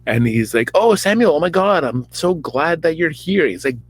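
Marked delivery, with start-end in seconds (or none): 0.7-3.5 high, loud hammed-up relief; gushing Saul. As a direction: gush over him in a put-on voice. Saul greeting Samuel, voiced.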